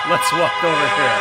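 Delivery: loud parroted Biden line; mock Biden. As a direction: echo the old man's words, loud. Repeating Biden's line mockingly.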